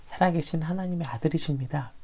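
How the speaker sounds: ordinary talk, nothing marked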